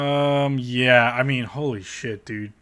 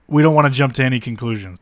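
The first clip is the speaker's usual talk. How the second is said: We don't wanna jump to any conclusions said louder, stress on don't; sarcastic louder repeat; 7 dB louder, faster than usual. Real, not acted. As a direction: repeat it louder, mocking the caution. Repeated line, louder second.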